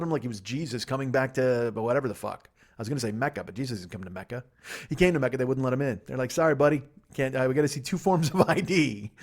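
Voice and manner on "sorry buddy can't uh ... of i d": amused gatekeeper. Acted. Bouncer at Mecca voiced, laughing.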